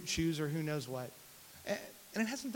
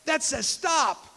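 put-on two-year-old son; 11 semitones higher, 9 dB louder, slower than usual. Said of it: "He looks, and he goes".

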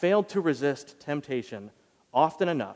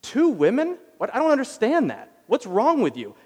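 much higher, louder disbelief; incredulous; 8 semitones higher, 5 dB louder than usual. Retold or imitated. Pastor scolding Abraham over two women, incredulous and high. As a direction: ask it in stunned disbelief. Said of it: "To which I wanna say".

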